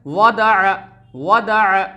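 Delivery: वदअ crisp and short; quick three-beat वदअ; short vowels, read quickly. Shown as a demonstration. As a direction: recite वदअ briskly, no vowel held. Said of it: "जल्दी पढ़ेंगे।".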